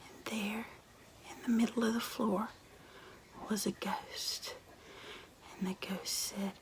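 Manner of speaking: hushed spooky storytelling. A narrator's reading. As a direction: draw the listeners in with a creepy hush. Hushed spooky ghost-story narration.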